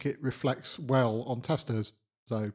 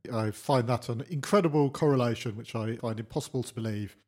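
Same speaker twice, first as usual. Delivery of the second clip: dry deadpan sarcasm; sarcastic. Acted. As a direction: say it with a straight face, not meaning it. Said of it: "That time I was being sarcastic".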